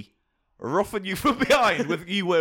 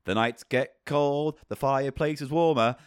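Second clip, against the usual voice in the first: story narration. Acted. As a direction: ease in like a bedtime story. Intro for Page Turner segment.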